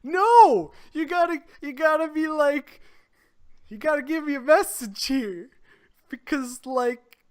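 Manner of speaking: high, loud and indignant; loud protest. Real, not acted. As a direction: yell a playful protest. Friend protesting a lazy text.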